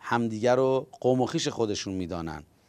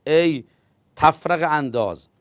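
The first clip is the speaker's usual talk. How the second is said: a raised, higher, sharp insult; angry retort; 3 semitones higher than usual. Acted. The governor angrily insults the captive, raised and higher. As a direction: spit out the insult in anger. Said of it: "عبیدالله هم با عصبانیت گفت".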